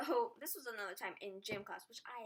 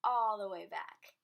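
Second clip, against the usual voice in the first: all the way back, much louder and slowed; loud emphasis; 15 dB louder, slower than usual. Shown as a demonstration. Vlogger dramatizing the bent finger for viewers, slow loud emphasis. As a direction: drag it out loud for the visual. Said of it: "let's give you a nice visual".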